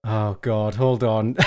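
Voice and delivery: ordinary talk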